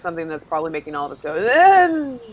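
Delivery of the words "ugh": groan. Retold or imitated. Players groaning at walking the boat.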